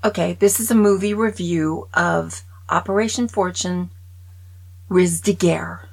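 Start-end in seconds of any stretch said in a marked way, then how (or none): 4.9-5.9 Riz de Guerre said the French way, ree-duh-gair; French pronunciation. Shown as a demonstration. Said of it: "That's how you say it".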